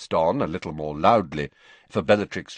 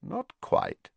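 calm; 10 semitones higher than usual. A narrator's reading. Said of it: "said Snape calmly".

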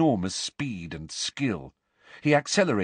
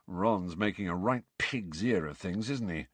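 softer, low muttered aside; softer, lower muttered aside; 3 semitones lower, 6 dB quieter than usual. A narrator's reading. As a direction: mutter it so Ron won't hear. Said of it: "muttered George".

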